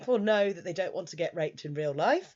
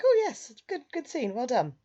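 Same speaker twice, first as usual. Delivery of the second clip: gleeful praise; 8 semitones higher, 3 dB louder than usual. Retold or imitated. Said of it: "I was like".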